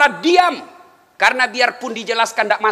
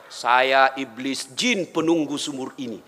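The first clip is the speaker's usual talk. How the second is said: jin voice; 9 semitones lower than usual. Retold or imitated. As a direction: rumble it out like an ancient jin. Jin from the well speaks.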